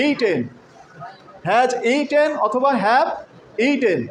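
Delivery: slowed down, every syllable of হ্যাজ ইটেন laid out; slow careful pronunciation. Shown as a demonstration. Teacher slowing down so the class can copy the words. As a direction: spell the sounds out slowly for a learner. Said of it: "কি উচ্চারণ হবে?".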